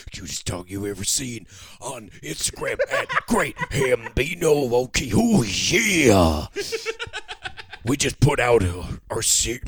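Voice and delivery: low wrestling promo voice. Acted. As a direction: growl a mock wrestling promo. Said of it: "You gotta cut a promo".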